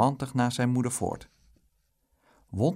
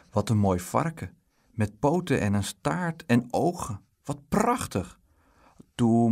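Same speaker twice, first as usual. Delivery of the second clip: lightly voiced eager child, admiring then pleading; a hint of a wheedling child; excited little Dick; 3 dB louder than usual. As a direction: coax mother like a delighted small boy.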